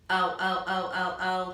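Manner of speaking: O said as its name, oh; teacher models the long O for children, oh; long O demo. Shown as a demonstration. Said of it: "Long O".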